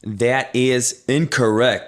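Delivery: slow game-show host ruling; drawn-out verdict. Acted. Quiz host tells player he lost, drawn-out. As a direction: stretch out every word.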